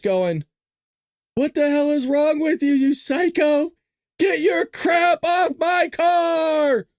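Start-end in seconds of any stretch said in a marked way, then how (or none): 1.4-6.9 loud, rising yell at a psycho; angry shout. Pretend. Normie yelling at vandals, angry shout. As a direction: shout it slow and outraged.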